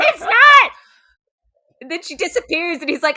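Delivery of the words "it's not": high, loud squealing denial through laughter; laughing mock yell; mock shouted denial. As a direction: ham up his cornered protest. Mocking the king's denial.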